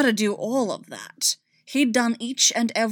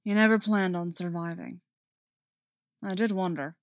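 gentle. Acted. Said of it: "They were back to gentle".

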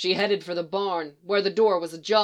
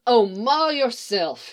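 irritable; 2 semitones higher, slower than usual. Acted. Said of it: "she said irritably".

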